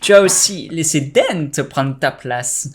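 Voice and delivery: Joker voice. Acted. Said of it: "j'ai fait une voix de Joker".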